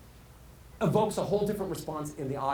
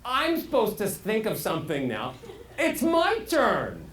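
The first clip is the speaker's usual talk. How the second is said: inner voice; 4 semitones higher than usual. Retold or imitated. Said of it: "Your brain goes".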